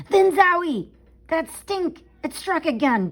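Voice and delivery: high, loud startled cry; surprised exclamation. A narrator's reading. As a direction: burst out with shock at the smell. Stink strikes again.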